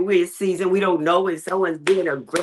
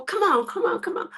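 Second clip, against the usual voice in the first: imitating the girl; 10 semitones higher than usual. Girl tugging the baby along.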